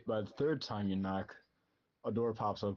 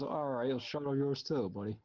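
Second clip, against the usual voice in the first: put-on snippy old lady; 5 semitones higher than usual. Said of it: "She says".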